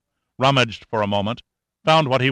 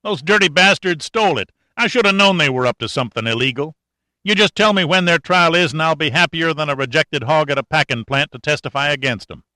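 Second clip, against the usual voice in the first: higher, louder fast fuming; angry rant; 5 semitones higher, 3 dB louder than usual. Acted. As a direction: spit it out in a hurry, steaming. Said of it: "he said angrily".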